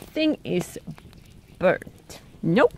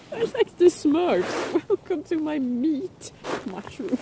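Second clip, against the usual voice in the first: giggling through the words; laughing; 7 semitones higher than usual. Real, not acted. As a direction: laugh as you say it. Laughing at the mushroom shape.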